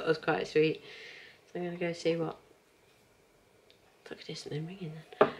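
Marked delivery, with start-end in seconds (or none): 4.1-5.3 whispered aside. Real, not acted. Fast hushed aside.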